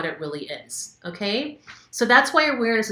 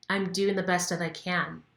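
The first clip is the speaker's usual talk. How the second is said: softer, gentle self-reassurance; calm affirmation; 6 dB quieter than usual. Shown as a demonstration. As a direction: soothe yourself with the words. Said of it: "say the affirmations".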